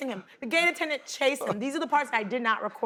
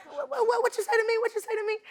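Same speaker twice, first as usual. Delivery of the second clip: much higher repeated mock challenge with a laugh in it; imitating an aggressive challenge; 11 semitones higher, faster than usual. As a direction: squeal the challenge high, half laughing. Retold man repeating his challenge.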